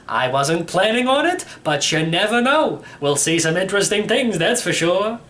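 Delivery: a hint of a cheerful old codger; a lightly voiced old uncle bragging about his car; old great-uncle voice.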